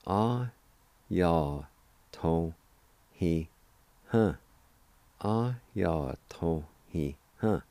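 Ah, ya, to, he, huh spaced out syllable by syllable. Shown as a demonstration. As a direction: break the word into syllables for learners. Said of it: "it's pronounced like this".

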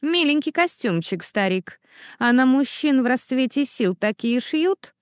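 teasing, needling insult to a rival; lightly voiced sneering dandy; mocking taunt. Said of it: "голосом Маттео".

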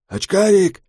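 high calling voice from the stairwell; distant call. Acted. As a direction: call out from far below.

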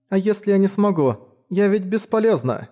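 put-on a girl caught off guard; bewildered girl. A narrator's reading. Girl startled as Mora bows, bewildered high voice.

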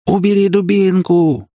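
high, drawn-out holler; wild yell. A narrator's reading. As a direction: yell it like a crazed man. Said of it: "завопил один из таких психов". (истошный вопль)

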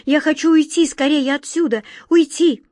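high, loud, pleading to get away; frightened plea. A narrator's reading. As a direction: beg to leave, panicky. Frightened girl begs to leave.

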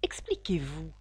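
low, quiet severe order; stern. A narrator's reading. Caterpillar demanding that Alice explain, low and stern. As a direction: order it sternly, without raising your voice. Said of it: "d'un ton sévère".

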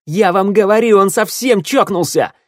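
loud, high-pitched frantic accusation; yelling. A narrator's reading. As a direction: holler it to everyone. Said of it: "орал Ворона". (орать возмущённо)

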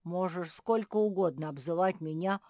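loud, breezy reassurance; happy, generous bear cub; cheerful forgiveness. Acted. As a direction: wave the offence away gladly.

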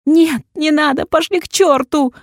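high, loud yelling curse; furious yell. A narrator's reading. Heroine yelling at the nurse and doctor. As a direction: fight them off, screaming. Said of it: "орала я".

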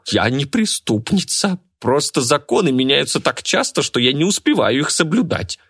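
high, pouting self-justification; sulky pout. Acted. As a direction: whine it with the lip pushed out. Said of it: "обиженно нахмурилась и выпятила нижнюю губу".

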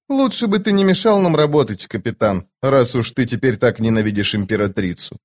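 a lightly voiced stern immortal; Cotillion voice. Cotillion voice again.

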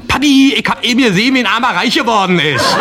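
put-on high, loud and fast child's voice; a boy rushing to tell his dad; excited little boy. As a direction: blurt it out like an eager kid. Excited boy calls to father.

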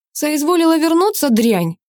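loud, high, contemptuous bellow; furious father thundering at his daughter from the stairs. A narrator's reading. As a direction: boom it down the stairs at her. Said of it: "громыхнул над их головами".

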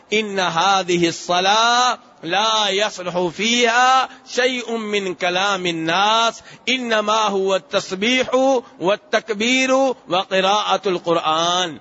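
slow, measured recitation of Arabic hadith; a preacher intoning the hadith in Arabic, slowly. Acted. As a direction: recite each Arabic word slowly and devoutly. Reciting the Prophet's Arabic words.

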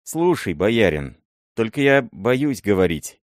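put-on wary old miller, unsure; hesitant fear. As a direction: speak up then pull back in fear. Miller afraid to speak.

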